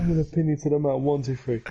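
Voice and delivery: wrestling promo. Pretend. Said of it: "I'm gonna do a promo".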